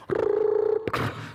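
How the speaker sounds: loud breathy yeehaw; cowboy yeehaw. Retold or imitated. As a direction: whoop like a cowboy. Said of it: "they have a recording".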